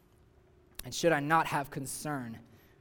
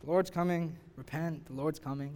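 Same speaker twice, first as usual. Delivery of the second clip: begrudgingly; 3 dB quieter than usual. Retold or imitated. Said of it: "like, kind of begrudgingly".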